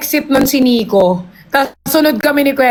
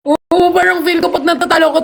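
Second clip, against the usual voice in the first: ordinary talk, nothing marked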